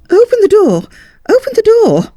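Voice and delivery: a lady crying out to get off; shrill furious call, twice; shouting. A narrator's reading. Lady demands escape.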